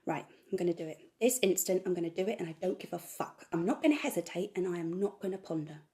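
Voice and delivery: loud, fired-up self pep talk; defiant rant. Acted. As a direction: build up into a loud, furious resolve. Defiant rant against hesitation.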